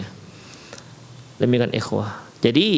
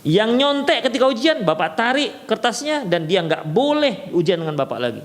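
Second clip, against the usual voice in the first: raised, firm teacher announcement; stern teacher rule; 6 semitones higher than usual. Shown as a demonstration. Teacher announcing the cheating rule before an exam, firm raised voice. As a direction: state the penalty firmly. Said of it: "si guru mengatakan".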